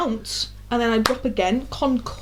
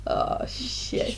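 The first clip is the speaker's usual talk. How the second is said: breathless whisper, much softer; whispered oh shit; 8 dB quieter than usual. Retold or imitated. Friends realising the mic announcement, hushed whisper. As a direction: whisper it in dread. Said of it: "looking at each other like".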